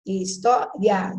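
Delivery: "História" slowly split as his, tó, ria; syllable by syllable. Shown as a demonstration. Teacher weighing stronger and weaker vowels, slow syllable-by-syllable. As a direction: say "História" in slow chunks, leaning on "tó". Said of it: "dá mais forte".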